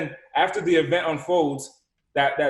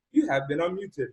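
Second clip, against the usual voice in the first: lightly mimicked phone-system prompt; automated phone voice. Call system unmuting a caller, lightly mimicked automated voice. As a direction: drop from hype into a recorded notice.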